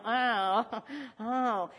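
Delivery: mock dismayed "oh"; a soft, put-on groan of discomfort; reluctant "oh". Preacher imitating listeners who dislike hearing this, mock dismayed groan. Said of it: "because we go".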